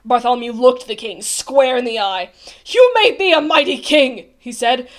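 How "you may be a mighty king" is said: loud, firm rebuke; defiant. A narrator's reading. Bartholomew faces the king square in the eye, defiant. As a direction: stand up to him forcefully.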